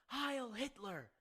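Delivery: high, drawn-out cartoon salute; Donald Duck impression. Co-host imitating the cartoon's voice actor, mock Donald Duck. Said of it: "voice actor for Donald Duck".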